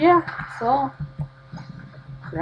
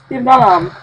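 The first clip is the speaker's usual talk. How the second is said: loud, much higher panicked yell; terrified shout; 6 semitones higher, 11 dB louder than usual. Real, not acted. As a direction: scream while fleeing. Chased by monster. (przerażony krzyk)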